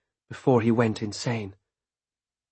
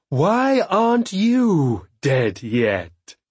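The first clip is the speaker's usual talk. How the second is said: louder, slow, seething; hateful snarl; 6 semitones higher, 4 dB louder, much slower than usual. A narrator's reading. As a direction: spit out the hatred. Hateful question repeated louder.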